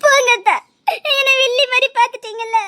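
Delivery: crying, wounded reproach; tearful sulk. Acted. Woman accuses her lover of seeing her as a villain, crying. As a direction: push him away through tears. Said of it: "சின்ன பிள்ளை மாதிரி அழுதுட்டு இருக்காத".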